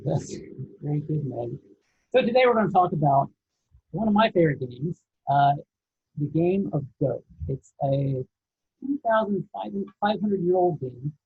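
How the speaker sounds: mic covered by a hand; muffled, like a hand over the mic. Real, not acted. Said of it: "you're covering your mic, so it's kinda hard to hear you".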